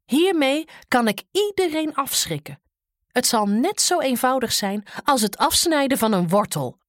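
loud, high-pitched boasting giant. Acted. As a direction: boast like a big bully. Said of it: "zei Grim".

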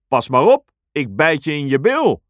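loud, quick crocodile threat; threatening crocodile. Acted. Crocodile warns the others, fast and loud. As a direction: snap it out like a nasty crocodile.

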